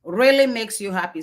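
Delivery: "Really" said with clear emphasis at the start; stress on Really. Shown as a demonstration. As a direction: lean hard on "Really". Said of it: "emphasis, right?".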